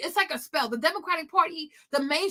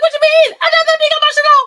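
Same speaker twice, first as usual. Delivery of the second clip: much higher, much louder, fast indignant shout; angry shout; 11 semitones higher, 12 dB louder than usual. Retold or imitated. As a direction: yell the denial, affronted. Retold angry denial to friend.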